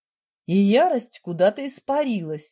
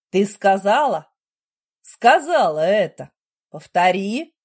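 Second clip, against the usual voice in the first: louder, insistent demand; husband demands she repeat it, louder; 5 dB louder than usual. A narrator's reading. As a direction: make her say it again. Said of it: "потребовал он".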